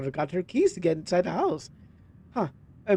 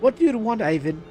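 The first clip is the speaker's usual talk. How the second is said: upset; 5 semitones higher than usual. Acted. Angry confrontation at the door.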